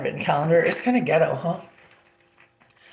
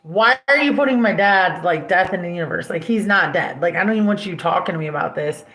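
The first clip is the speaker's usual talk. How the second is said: retold angry rant; 4 dB louder than usual. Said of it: "I'm like".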